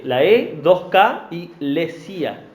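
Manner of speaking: slow, letter by letter; "la E, dos K y lesia" spelled slowly for note-takers; spelling it out. Shown as a demonstration. Preacher spelling the word for note-takers, slow. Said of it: "Para el que está anotando".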